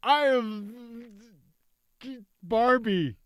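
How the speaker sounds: a weak, high mock Aussie voice, barely shifted; hammed-up Australian, badly faked; bad Australian accent. Shown as a demonstration. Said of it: "And that would sound like what".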